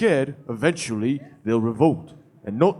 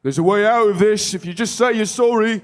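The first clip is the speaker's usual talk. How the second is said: menacing vine voice; 9 semitones higher, 6 dB louder than usual. Acted. GM voices the threatening vines.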